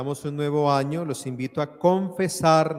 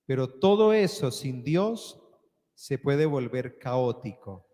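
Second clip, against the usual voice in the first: preaching. Acted. Homily before closing prayer.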